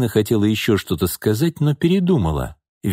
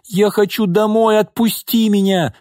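high-pitched struggling protest; squealing child; 12 semitones higher than usual. A narrator's reading. Daughter fighting to get free of mother, squealing. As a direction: wail to be let go, pitched high. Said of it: "визжала Алёнка".

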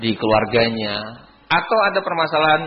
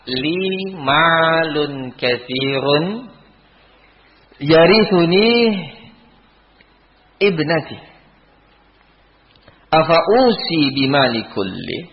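higher, louder, drawn-out Arabic recitation; Sa'ad asking the Prophet about his wealth, raised and pleading; Sa'ad's anxious plea; 7 semitones higher, 5 dB louder, slower than usual. Retold or imitated. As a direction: recite Sa'ad's worried question with rising urgency.

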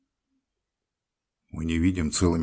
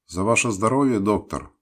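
heartfelt toast; 7 semitones higher, 7 dB louder than usual. A narrator's reading. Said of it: "прочувственно сказал Демьян Лукич".

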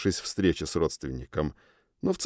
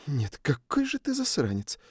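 grumbled; 5 semitones higher, 5 dB quieter than usual. A narrator's reading. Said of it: "буркнула Сьюн".

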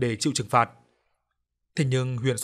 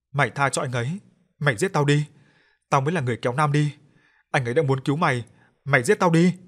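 rising to a loud tearful cry; desperate crying plea; 2 semitones higher, 4 dB louder than usual. Acted. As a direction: throw yourself in to be taken. Sister-in-law offers herself, crying.

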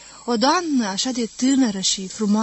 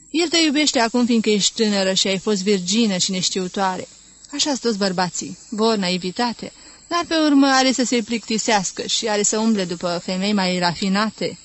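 louder, knowing worldly lecture; cynical warning; 4 dB louder than usual. Acted. Cynical wives warning Vera about men, louder and knowing. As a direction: lecture the naive bride with a cynical smirk.

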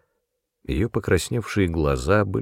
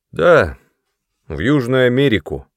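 raised and louder, proud announcement; self-important; 5 semitones higher, 6 dB louder than usual. A narrator's reading. Brother announces his new job, self-important. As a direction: puff yourself up as you tell her. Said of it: "отвечал он важно".

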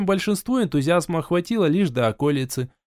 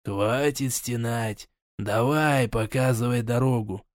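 cold command; 3 semitones lower, 4 dB quieter, slower than usual. Acted. Mage orders captive.

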